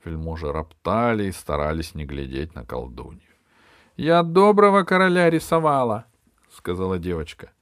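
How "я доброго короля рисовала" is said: put-on high, small child voice; little girl. A narrator's reading. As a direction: speak like a timid little girl. Little girl's voice. (голосок маленькой девочки)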